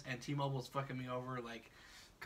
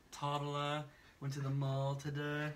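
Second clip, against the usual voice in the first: put-on slow Valley Girl accent with long stretched vowels; exaggerated Valley Girl accent drawn out; overdone Valley Girl accent; slower than usual. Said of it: "that's an over accentuation".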